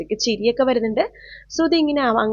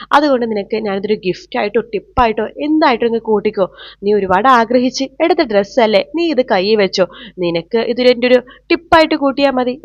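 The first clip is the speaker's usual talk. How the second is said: contemptuous mockery. Ashwin scorns Shruthi over the costly dress, sneering. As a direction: look down on her and mock the price. Rich man mocks the maid's dress.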